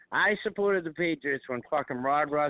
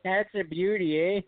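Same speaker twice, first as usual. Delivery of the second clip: McKenzie brothers; 3 semitones higher than usual. Acted. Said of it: "those two dummies from Canada".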